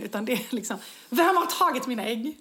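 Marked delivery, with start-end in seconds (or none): 1.1-2.4 loud, accusing demand; mock outrage, voice raised; indignant accusation. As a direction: retell it as an outraged challenge. Retold indignant reaction to missing eggs.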